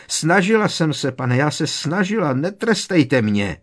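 pleading in fear. A narrator's reading. Bellatrix begging her master.

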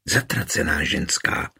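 low, understated swearing; muted curse. A narrator's reading. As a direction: curse her under restraint. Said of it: "zaklela Barborka". (tlumené zaklení)

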